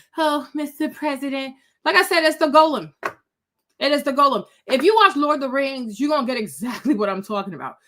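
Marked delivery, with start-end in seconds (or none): 0.2-1.6 meek, demure, harmless-sounding woman's voice. Describing a woman addressing the President, imitating her in a mock-meek voice. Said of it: "She talks like this".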